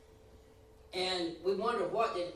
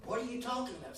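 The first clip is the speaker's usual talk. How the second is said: puzzled question; 6 semitones higher, faster than usual. Retold or imitated. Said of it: "God looks at you and says".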